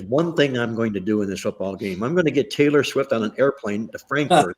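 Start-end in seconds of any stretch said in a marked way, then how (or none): 2.0-4.6 chuckling through the words; laughing at his own joke. Real, not acted. Joking about a plan involving a singer.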